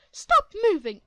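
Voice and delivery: loud, high shouted command; yelled order. Acted. Entitled mother yelling at the boy to hold still. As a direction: bark it at him.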